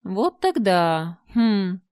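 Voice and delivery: slow, clicking creature speech; a spider clicking in the dark; clicking monster voice. Acted. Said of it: "прощёлкала в темноте". (паук-чудовище щёлкает в темноте)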